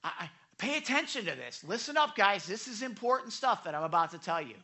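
rally wandering listeners to listen up; urging attention. Retold or imitated. Teacher telling the crowd this matters, urging attention. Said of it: "He's saying".

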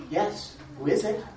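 politely calm answer through the door. Acted. Husband answering the knocking queen, calm and polite. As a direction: answer gently, unbothered. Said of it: "very nicely and calmly".

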